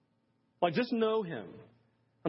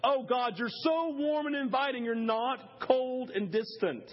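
higher, slow wonder; a preacher reliving warm prayer; grateful prayer; 5 semitones higher, slower than usual. Retold or imitated. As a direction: praise him, savouring each word. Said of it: "a great moment".

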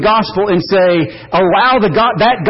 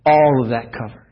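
much softer and lower, tender and hushed; Jesus speaking softly; 8 semitones lower, 6 dB quieter than usual. Retold or imitated. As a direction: speak as Jesus, gently reassuring. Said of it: "And Jesus says".

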